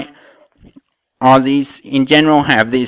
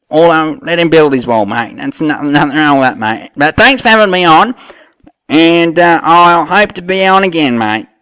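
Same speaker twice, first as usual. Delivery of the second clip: lightly put-on Aussie accent; Australian bloke; 2 semitones higher than usual. Aussie guest answering the host about the war, mild Australian accent. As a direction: play the Aussie mate, easygoing. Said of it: "Australian, what are we calling you now?".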